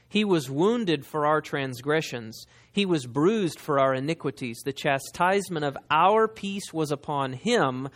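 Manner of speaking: slow, weighty Bible reading; scripture reading. Acted. Preacher reading Isaiah to the congregation, slow and solemn. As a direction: read the prophecy slowly, each phrase landing.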